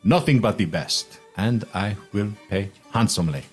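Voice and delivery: lavish merchant pitch with swooping stresses; grandiose merchant. Acted. Merchant offers new friend free passage, grandiose. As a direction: sell it like an expansive, flattering trader. Game master voices Jubal making offer.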